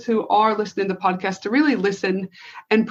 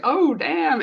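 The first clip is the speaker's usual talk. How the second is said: laughing; 6 semitones higher than usual. Real, not acted. Reacting to trigger affirmation.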